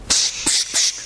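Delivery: leises, stimmloses Pst; zischendes Pst. Retold or imitated. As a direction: zisch die Leute zum Schweigen. Menge bringt Blinden zum Schweigen. (stimmlos zischend)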